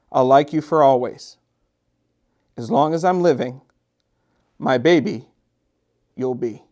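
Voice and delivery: gentle read-aloud storytelling voice; story narration. A narrator's reading. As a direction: read it like a bedtime picture book to children. Reads picture book aloud.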